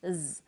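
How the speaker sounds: "z" sounded as the ending IZ; final S as IZ. Shown as a demonstration. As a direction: sound out "z" as IZ, not the letter name. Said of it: "is pronounced z".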